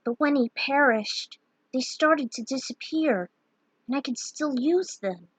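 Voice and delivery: lightly voiced Terra recalling her past; Terra's voice.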